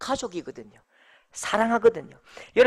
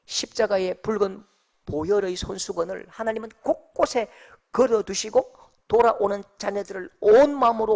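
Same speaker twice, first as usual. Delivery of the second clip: ordinary delivery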